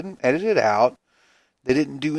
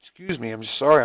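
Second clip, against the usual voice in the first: talking through a yawn; mid-yawn apology; 2 semitones higher than usual. Real, not acted. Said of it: "I'm yawning".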